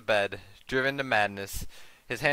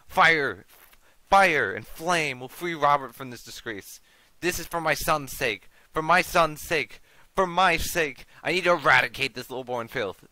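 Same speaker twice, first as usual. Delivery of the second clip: put-on loud, commanding old zealot's rant; fanatical grandfather; 3 semitones higher, 4 dB louder than usual. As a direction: thunder out a mad cleansing by fire. Mad grandfather threatens to burn her.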